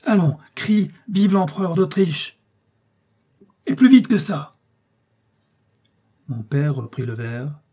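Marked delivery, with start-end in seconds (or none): 0.0-4.6 brutal shout, much higher and louder. A narrator's reading. Officer forcing the father to cheer Austria, brutal shout. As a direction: bark the order at him. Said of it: "il dit brutalement".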